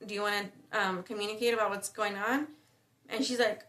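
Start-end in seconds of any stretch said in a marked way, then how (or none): 0.0-2.5 gentle offer to talk. Retold or imitated. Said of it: "So I was like".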